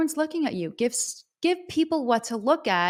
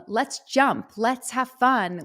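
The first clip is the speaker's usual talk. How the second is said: mildly excited, higher and louder; upbeat invitation; 4 semitones higher, 5 dB louder, slower than usual. Acted. Singer urging the crowd to have fun, mildly excited. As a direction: lift it playfully, stretching the words.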